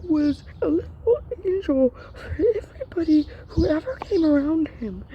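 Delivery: real distress, voice rising high; pained outpouring, pitch lifted with grief; emotional. Real, not acted. Sibling grieving a little brother aloud, emotional and pained. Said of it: "I'm sorry if I'm getting emotional".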